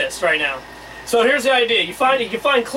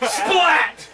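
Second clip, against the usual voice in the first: comic sound effects; 5 semitones higher, much slower than usual. Retold or imitated. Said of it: "that goofy motherfucker goes".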